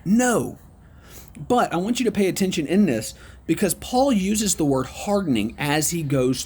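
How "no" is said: a single high, firm No; emphatic no. Shown as a demonstration. Preacher giving Paul's answer, an emphatic No. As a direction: land the No as a final answer. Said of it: "It's emphatic".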